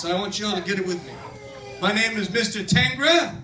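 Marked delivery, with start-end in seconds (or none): 1.8-3.4 slow, deliberate. Shown as a demonstration. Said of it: "I'm only gonna say it once".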